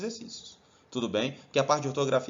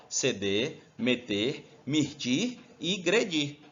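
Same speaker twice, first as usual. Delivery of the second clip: slow recitation, one ending at a time; measured mnemonic with pauses between items; memorization list; much slower than usual. Shown as a demonstration. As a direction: drill the endings in separate beats. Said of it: "Então, grava lá".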